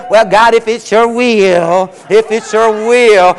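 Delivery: slow, timid, hedging prayer; mock a wishy-washy pray-er, slowly; mock feeble prayer; mealy-mouthed prayer. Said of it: "no little mealy-mily".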